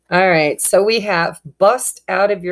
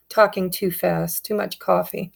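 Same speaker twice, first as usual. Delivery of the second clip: normal talking voice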